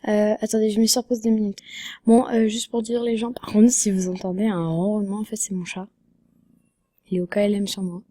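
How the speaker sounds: rough, cracked sick voice; hoarse voice. Real, not acted. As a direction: talk through a sore throat. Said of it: "j'ai la voix cassée".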